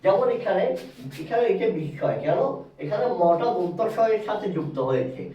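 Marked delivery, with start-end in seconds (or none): 1.8-2.2 বিস্ময় said as bish-shoy; বিস্ময় with the m silent; doubled sibilant. Shown as a demonstration. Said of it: "দন্তাক্ষরের উচ্চারণটা দ্বিগুণ হবে".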